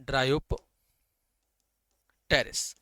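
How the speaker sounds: "Dryopteris" drawn out very slowly, relishing each syllable; savouring the name. Shown as a demonstration. Teacher enjoying saying a plant name, slow and relishing. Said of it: "कितना अच्छा लगता है ये नाम बोलने में".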